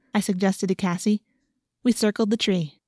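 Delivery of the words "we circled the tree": plain reading voice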